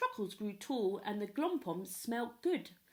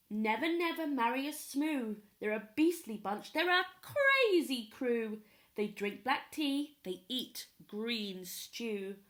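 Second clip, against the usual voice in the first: grandparents forbidding. Acted. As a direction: forbid the marriage firmly.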